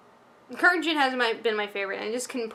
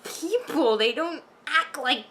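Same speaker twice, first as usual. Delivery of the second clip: exasperated rant; 4 semitones higher, slower than usual. Retold or imitated. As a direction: vent like you can't believe what you're watching. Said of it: "it was just like".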